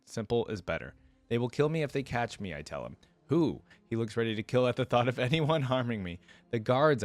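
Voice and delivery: dramatic read-aloud with lightly voiced dialogue; first-person story narration. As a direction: tell it as the story's heroine.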